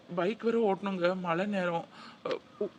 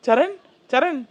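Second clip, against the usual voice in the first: anxious reassurance; 6 semitones higher, 7 dB louder than usual. Acted. Reassuring mother, rousing sick child.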